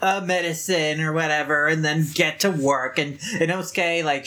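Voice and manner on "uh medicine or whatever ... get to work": lower, grudging concession; begrudging. Retold or imitated. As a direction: give in reluctantly, mildly acted. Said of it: "like, begrudgingly accept it".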